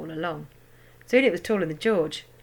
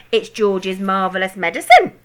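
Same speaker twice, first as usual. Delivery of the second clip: shout; 8 dB louder than usual. A narrator's reading. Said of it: "Grandma shouted".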